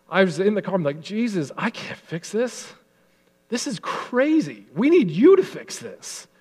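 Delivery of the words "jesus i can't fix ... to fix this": emotional prayer. Real, not acted. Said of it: "oh, I'm getting emotional".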